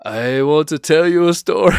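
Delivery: hammed-up authority figure telling a tale; mock storyteller. Mocking authority figures, mock storyteller tone. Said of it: "they'll be like".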